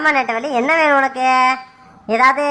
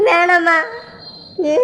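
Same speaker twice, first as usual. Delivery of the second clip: crying plea; much slower than usual. Acted. Father begs his daughter to give up Muthu, crying. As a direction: voice breaking into a sob on வேணாமா.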